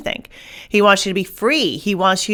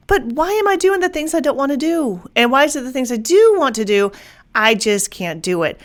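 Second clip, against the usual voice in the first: frustrated pleading; 5 semitones higher than usual. Retold or imitated. Voicing frustrated inner struggle.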